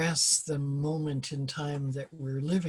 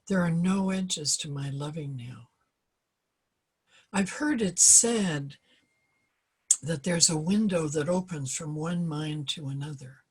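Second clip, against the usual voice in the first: unhurried reading with long pauses between lines; slow poem reading. Real, not acted. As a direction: read the poem slowly, letting each line settle. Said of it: "I'm gonna read it slowly".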